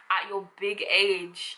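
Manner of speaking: slow, stretched put-down at normal level; condescending. Shown as a demonstration. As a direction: drawl "At your big age." patronizingly. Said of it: "If they're doing something just dumb".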